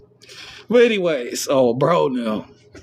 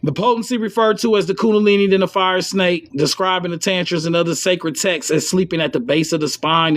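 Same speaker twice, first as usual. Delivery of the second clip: quoted passage read fast, a little higher; text reading; 3 semitones higher than usual. Acted. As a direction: read the sacred text out, quick and solemn. Reads a sacred text aloud.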